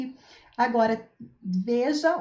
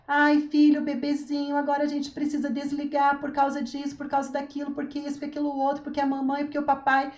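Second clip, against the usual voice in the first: over-explaining; 3 semitones higher than usual. Shown as a demonstration. Unsure mother over-explaining to her child why the screen must go off, pleading and rambling. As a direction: justify and coax without end, not sure of yourself. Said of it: "quando a gente fica com, muito com blá, blá, blá".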